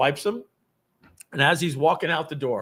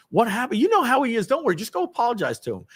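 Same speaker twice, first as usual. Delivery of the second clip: higher, imploring imitation of colleagues; pleading coworkers; 10 semitones higher, faster than usual. Coworkers urging a colleague to apologize, higher pleading voice. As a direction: coax him urgently, as retold. Coworkers soothe him after the blowup.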